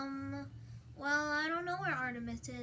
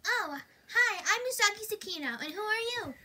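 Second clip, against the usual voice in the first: Usagi voice; 5 semitones higher, 6 dB louder than usual. Pretend. Playing Usagi character.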